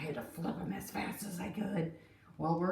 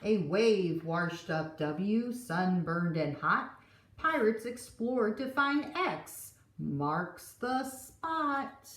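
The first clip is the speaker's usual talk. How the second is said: put-on lively read-aloud for kids; gentle storytime narration; storybook reading; slower than usual. A narrator's reading. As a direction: read it like a picture book at story time. Reading the picture book aloud.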